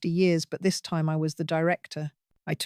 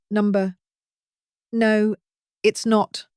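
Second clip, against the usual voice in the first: higher, rasping fake sob; dry sob; 3 semitones higher, 4 dB louder, slower than usual. A narrator's reading. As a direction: sob it out dryly to fool her son. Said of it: "I sobbed a dry, rasping sound".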